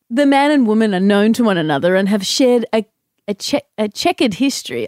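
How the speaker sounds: lightly done news reporter voice; measured field report read; newsreader voice. Pretend. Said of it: "focusing on the voice".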